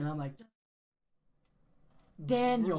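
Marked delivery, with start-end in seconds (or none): 2.2-2.8 retold shout to snap a friend to attention; exasperated shout. Telling a panicking high friend to listen, exasperated shout. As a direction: yell the name out, high and loud.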